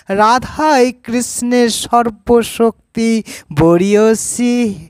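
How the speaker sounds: sustained, evenly pitched devotional verse; verse recitation. Acted. Devotee praising Radha as Krishna's worship embodied, sustained verse recitation. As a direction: recite in measured phrases, holding the endings.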